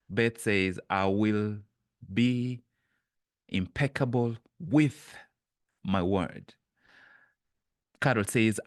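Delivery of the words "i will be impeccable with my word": slow with pauses between "be", "impeccable with" and "my word"; paused, word by word. Shown as a demonstration. Reading Beth's pledge, slow and halting, word by word. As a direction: space the words apart, each its own beat. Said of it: "which word am I emphasizing".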